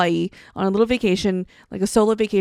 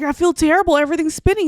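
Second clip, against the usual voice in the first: miserable complaint; 7 semitones higher, 7 dB louder, faster than usual. Retold or imitated. Telling doctor friend symptoms.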